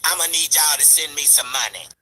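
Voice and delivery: mocking rival's plea. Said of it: "I'ma bring my black ass back to y'all".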